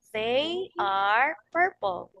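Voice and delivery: slow model sentence. Shown as a demonstration. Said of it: "can you say".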